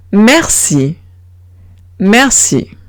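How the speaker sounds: "merci" with a hissed s for c. Shown as a demonstration. Teacher modelling C before I, hissed s. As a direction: say "merci" as mer-see, French r. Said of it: "se pronuncia como una S".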